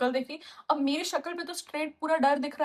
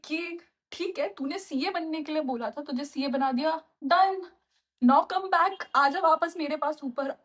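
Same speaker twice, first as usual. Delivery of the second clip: booming mock God voice calling her up, higher and louder; 3 semitones higher, 3 dB louder than usual. Imagining God summoning her to heaven, loud mock voice. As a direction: play God telling her time's up, loudly. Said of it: "What if God is like".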